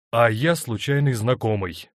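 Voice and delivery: a touch of anger, cutting her off; angry interruption. A narrator's reading. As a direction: bitterly cut in. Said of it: "гневно прервал он её".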